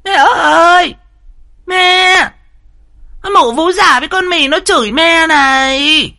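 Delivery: a spiteful daughter shouting a false charge; shrill tattling yell. A narrator's reading. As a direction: scream the accusation up to the house. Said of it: "dở cái giọng chanh chua".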